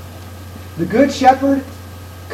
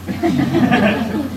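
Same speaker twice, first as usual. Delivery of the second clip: short laugh; 4 semitones higher, 5 dB quieter than usual. Real, not acted. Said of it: "That's supposed to be funny".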